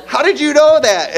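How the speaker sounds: high, loud marveling parent; astonished parent, acted out with a laugh; amazed question, retold. Parents making a big deal, retold.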